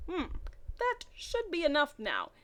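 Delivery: a hint of a gloating cackle; lightly cackling vampire. Vampire gloating over Rochelle, lightly voiced. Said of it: "he cackled".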